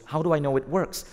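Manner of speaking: acted challenge from a doubtful buyer; George Westinghouse. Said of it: "And George Westinghouse goes".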